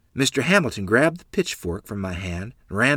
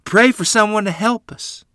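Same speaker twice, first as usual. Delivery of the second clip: crying plea; 11 semitones higher, 6 dB louder than usual. Acted. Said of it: "Lottie cried".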